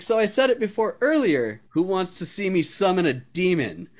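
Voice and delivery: high, fast, innocently eager; bubbly airhead with a nasty plan; ditzy offer. Retold or imitated. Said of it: "acting super ditzy".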